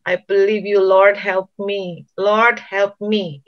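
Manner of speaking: slow, drawn-out plea to God; earnest, trusting appeal, stretched out; acted surrendering prayer. Preacher as weeping David still trusting God, slow pleading. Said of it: "dia pada akhirnya ngomong".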